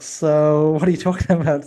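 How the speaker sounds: incredulous comeback, breaking into a laugh mid-line; laughing retort. Retold or imitated. Retelling his reply to a rude customer, laughing.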